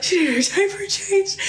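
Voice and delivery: high-pitched mock of brother; tweaking brother. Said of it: "he's saying this".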